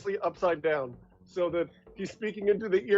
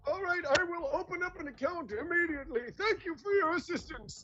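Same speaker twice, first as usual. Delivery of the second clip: put-on high, softer old man voice; 7 semitones higher, 5 dB quieter than usual. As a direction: stiff old man ending call.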